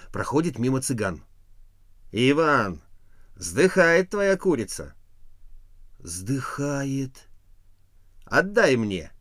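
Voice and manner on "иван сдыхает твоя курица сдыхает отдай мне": passing gypsy. A narrator's reading.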